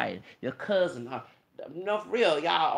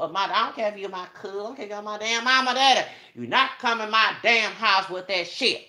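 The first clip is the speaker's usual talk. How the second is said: rising furious rant at relatives; angry shouting; 5 semitones higher, 8 dB louder than usual. Real, not acted. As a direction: voice climbing to a furious yell. Ranting about toxic relatives at house.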